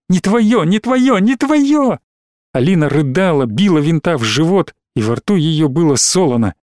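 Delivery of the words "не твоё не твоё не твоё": building from high to a far higher scream; hysterical outburst. Acted. Alina screaming at Vint, building to hysteria. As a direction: escalate each repeat to a shriek.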